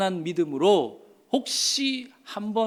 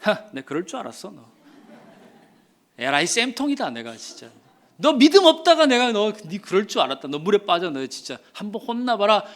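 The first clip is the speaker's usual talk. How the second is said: mocking gloat. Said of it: "주님이 어떻게 하시는 게 맞을까요".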